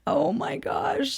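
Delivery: whispered, slow, laughing gasp; can't believe it, half laughing; airy slow giggle of disbelief; breathless laugh. Real, not acted.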